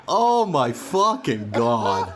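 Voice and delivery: slow, drawn-out dismay; retold exasperation, word by word; exasperated. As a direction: stretch every word in despairing disbelief. Retold despair at toy microphone.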